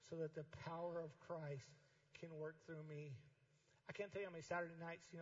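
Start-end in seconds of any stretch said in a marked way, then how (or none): 0.1-3.2 slow scripture reading. Shown as a demonstration. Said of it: "Read this out loud to me".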